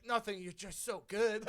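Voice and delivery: high, loud line broken by laughter; laughing cover-up. Retold or imitated. Telling a friend how he covered for the rat, laughing. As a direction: laugh through the excuse.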